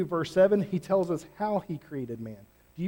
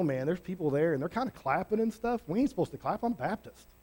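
softer, faster, hedging mumble of a doubter; doubtful churchgoer; 3 semitones lower, 4 dB quieter, faster than usual. Retold or imitated. A hesitant churchgoer mumbling excuses about the revival, softer and fast. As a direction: play the unsure pew-sitter talking himself out of it. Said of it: "where we go".

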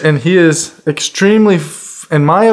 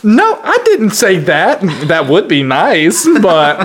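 mock flustered guy; 4 semitones higher than usual. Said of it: "his reaction was something along".

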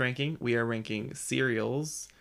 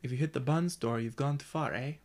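learner's light Canadian accent. Shown as a demonstration. Learner repeating the coach's example, Canadian accent. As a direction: echo a Canadian accent with a tagged-on "eh?". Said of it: "in a Canadian accent".

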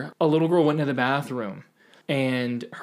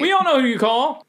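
teasing setup; 10 semitones higher, 5 dB louder than usual. Real, not acted. Ghostbusters setup.

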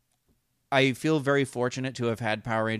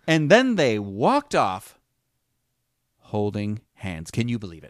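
hammed-up slow storytelling with long pauses; loud swooping 'walked off', then drawn-out 'holding hands'; playfully overemphatic; 8 dB louder than usual. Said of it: "emphasizing your point".

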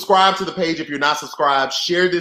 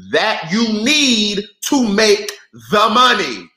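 slow, high, louder punchline; emphatic slow punch; 9 semitones higher, 4 dB louder, slower than usual. Real, not acted. Streamer scolding companies, slow and emphatic. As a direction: lean hard on every word. Stressed point on profits.

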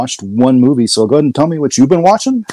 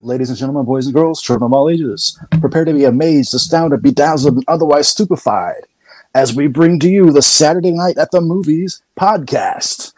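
ringmaster. Acted. Podcast intro, circus announcer style.

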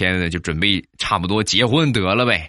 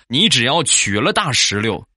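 lightly voiced mother, pitched up; earnestly warning mother; 5 semitones higher than usual. Mother cautions her daughter's boyfriend before marriage, earnestly warning. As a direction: give a comic, insistent warning with raised pitch.

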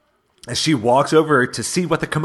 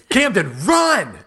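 higher, drawn-out mock panic; retold warning; 6 semitones higher, slower than usual. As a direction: stretch out a helpless cry. Retold warning, helpless dad.

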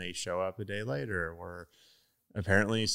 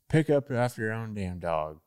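lightly voiced older-generation grumbler; a mild mock boomer scolding; 4 dB louder than usual. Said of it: "is that your boomer voice".

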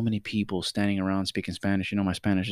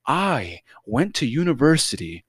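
slow, pompous boast; bragging; 4 semitones higher, slower than usual. Retold or imitated. Customer bragging to the clerk about his credentials, pompous. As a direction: stretch it out grandly, pitched up, mocking him. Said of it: "he started bragging about his credentials".

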